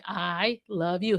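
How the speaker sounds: slow, gentle mother's I love you; tender I love you. Retold or imitated. Mother telling her nonverbal son I love you, slow and tender. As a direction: say it softly to your son. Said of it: "and I say".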